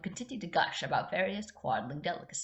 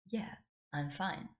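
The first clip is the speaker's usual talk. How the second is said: stuttering; 2 semitones higher, 7 dB quieter, slower than usual. Acted. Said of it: "Elphaba stuttered".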